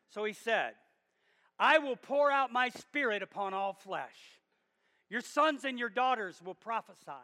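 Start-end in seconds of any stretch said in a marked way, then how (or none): 1.6-7.1 Peter's prophecy preached out in a raised voice; bold proclamation. Retold or imitated. Peter quoting the prophet Joel to the crowd, boldly proclaiming. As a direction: declare the prophecy boldly, in measured phrases. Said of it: "So Peter boldly".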